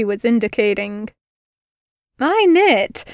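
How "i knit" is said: deadpan. Acted. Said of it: "she deadpanned".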